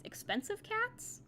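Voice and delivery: slow, rising, puzzled question; incredulous slow echo of a strange phrase. Real, not acted. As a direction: repeat it like you can't believe the phrase. Reader questioning odd phrase.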